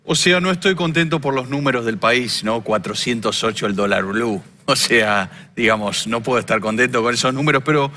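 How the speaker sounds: Argentine politician impression, lightly voiced; Javier Milei impression. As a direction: talk like Milei with a halting "o sea, digamos". Impersonates Milei throughout.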